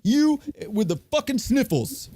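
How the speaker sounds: high, exasperated yelling; annoyed passenger. Retold or imitated. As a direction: snap at the sniffling guy, way up high. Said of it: "He's like".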